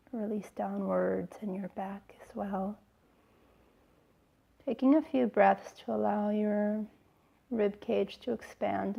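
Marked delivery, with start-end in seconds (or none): 0.1-2.8 whispering. Acted. Relaxation cue during meditation.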